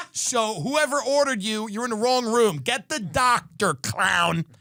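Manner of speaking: hammed-up rage at a nurse; mock tirade. To a nurse walking in, hammed-up abusive rant. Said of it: "spit right in her face and go".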